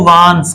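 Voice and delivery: वांट्स with a clear final s, not वांट; say wants. Shown as a demonstration. Teacher to students, stressing the s in वांट्स. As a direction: end वांट्स on a crisp ts sound. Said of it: "इसको वांट से मत बोलना".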